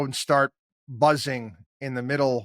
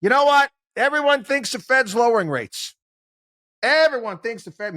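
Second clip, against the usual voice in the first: high, loud, showman declaration; a hammed-up TV market guru; outrageous pundit; 10 semitones higher, 5 dB louder than usual. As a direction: sell a wild prediction on air. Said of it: "go on one of these things and say".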